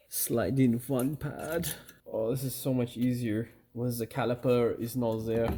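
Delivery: playfully faked British accent; corny British accent. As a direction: put on a hammy British accent. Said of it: "that's my corny British accent".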